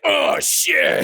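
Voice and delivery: breathy shocked "oh shit", high; mock whispered gasp. Man caught insulting a player, whispering in shock. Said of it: "a thirty-year-old guy who was just like".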